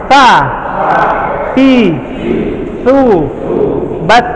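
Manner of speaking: Sa, ti, tu, bat with audible breath; breathy letter drill. Shown as a demonstration. Teacher modelling breathy syllables for students to copy. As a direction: breathe out through each Sa, ti, tu, bat. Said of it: "Sa juga sama".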